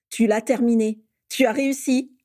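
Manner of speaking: thrilled friend guessing the secret, loud and high; excited. Acted. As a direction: shout out the discovery.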